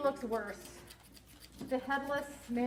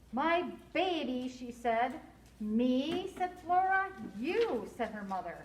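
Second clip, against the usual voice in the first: expressive storybook narration with lively dialogue; story read-aloud; 3 dB louder than usual. A narrator's reading. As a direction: read it to children, acting each line.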